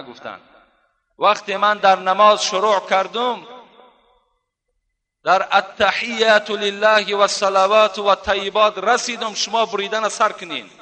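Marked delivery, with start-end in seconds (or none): 1.2-10.7 raised, higher-pitched declaration; emphatic instruction. Retold or imitated. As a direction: lift the voice steadily, as if instructing the doctors. Acting Urwa's firm instruction to doctors.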